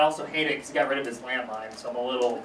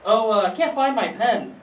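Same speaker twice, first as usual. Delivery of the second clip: high, slow, louder aunt voice; imitated aunt; 5 semitones higher, 4 dB louder, slower than usual. Aunt who has lost her pen, high imitated voice. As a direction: play the aunt, pitched up and drawn out. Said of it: "my aunt was like".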